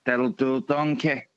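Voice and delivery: low donkey-scolding ogre voice; Shrek impression. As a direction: drop deep and rumble it like Shrek. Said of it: "I can actually do".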